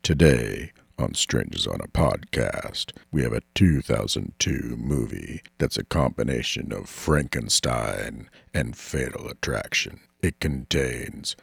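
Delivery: deep spooky station announcement; airport announcement. Acted. Podcast intro as train announcer.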